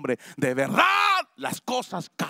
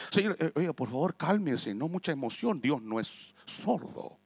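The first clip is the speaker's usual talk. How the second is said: mock calming; 3 dB quieter than usual. Stiff pastor tells pentecostal to calm down, mock soothing. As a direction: hush the worshipper down, condescending.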